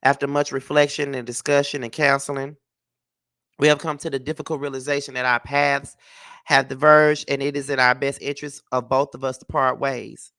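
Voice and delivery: even, measured reading of a prepared statement; statement read-aloud. Acted. Vlogger reads a couple's divorce statement to viewers, measured reading. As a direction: read it out formally, pausing between phrases.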